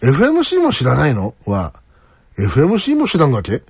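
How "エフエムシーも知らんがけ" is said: Toyama-dialect question ending in がけ; tentative attempt at a Toyama accent. Shown as a demonstration. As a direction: ask it with a Toyama lilt. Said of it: "富山弁は疑問形の語尾に".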